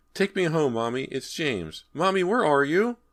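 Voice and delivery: put-on high, loud child's cry; a lost boy crying out from the dark; crying little boy. A narrator's reading. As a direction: call out for mommy, desperate and scared. Ghost boy calling.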